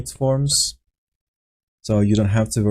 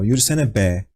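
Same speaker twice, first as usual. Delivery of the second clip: rude demand. Shown as a demonstration. To a person blocking your path, a mildly rude demand. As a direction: push Yürüsene be at them like picking a fight. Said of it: "Be is rude".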